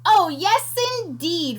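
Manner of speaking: high eager "Oh, yes"; eager reply. Acted. Piglet answering the creature eagerly. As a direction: jump at it. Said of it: "replied Pinkerton".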